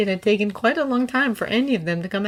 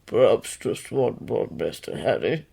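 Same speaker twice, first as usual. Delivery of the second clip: much lower, slow croaking elf voice; a pleading little creature begging for one more blow; slow, low elf voice asking his master for one more; imploring house-elf; 7 semitones lower than usual. A narrator's reading. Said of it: "looking up at Harry imploringly".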